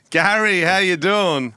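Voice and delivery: loud, high mock-interviewer hello; over-keen pretend call opener; hearty phone greeting. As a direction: greet the caller with big put-on cheer.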